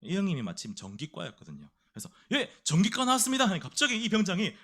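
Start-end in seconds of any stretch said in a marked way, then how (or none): 2.3-3.5 high, loud military reply; new recruit's answer. Acted. New private answering the sergeant's question, loud and high. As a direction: report it like a private to a superior.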